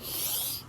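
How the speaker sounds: soft shushing pour sound; pouring noise. Pretend. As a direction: imitate batter pouring with a hushed shh. Imitating batter pouring.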